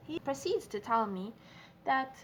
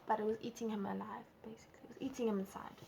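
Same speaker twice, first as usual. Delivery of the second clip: whispered confession; 5 dB quieter, faster than usual. Retold or imitated. Retelling his guilty confession.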